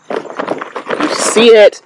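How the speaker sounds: whispered, very slow; hushed, drawn-out farewell. Acted. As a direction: breathe it out like a solemn goodbye. Dramatic farewell to greenhouse.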